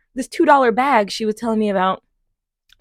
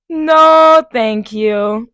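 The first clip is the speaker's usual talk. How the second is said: firm refusal; 3 semitones higher, 7 dB louder, much slower than usual. Retold or imitated. Refusing a hit.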